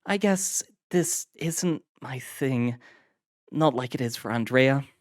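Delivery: put-on high young woman's voice; weary, a bit glum; Iris voiced. A narrator's reading.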